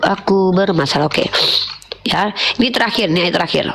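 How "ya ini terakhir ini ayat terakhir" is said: stuffy nose, talking through congestion; blocked nose. Real, not acted. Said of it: "Aduh, hidung aku mampet".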